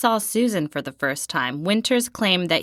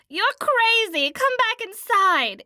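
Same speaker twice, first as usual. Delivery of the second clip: imploring; 14 semitones higher than usual. Acted. Memoir friends beg him back from the storm, high pleading call. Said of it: "we implored him".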